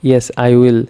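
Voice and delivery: "Yes, I will" let down at the end; voice going down. Shown as a demonstration. Teacher showing how answers sound, voice going down. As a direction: drop "I will" as a settled answer. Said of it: "নিচু আসে".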